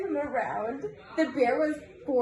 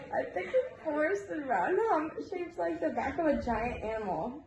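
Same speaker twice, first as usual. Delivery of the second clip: giggling; 3 semitones higher than usual. Real, not acted. Reader giggles through a story.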